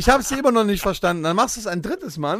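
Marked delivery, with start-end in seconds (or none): 0.0-1.2 high-pitched imitation of an automated line; computer hotline voice. Automated hotline failing to understand the caller, mock computer voice. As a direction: repeat it like the phone menu. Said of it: "immer erstmal so eine Computerstimme".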